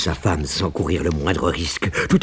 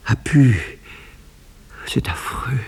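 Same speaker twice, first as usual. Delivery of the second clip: désespoir joué; 13 semitones higher, 5 dB louder than usual. Acted. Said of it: "j'ai bien joué mon rôle".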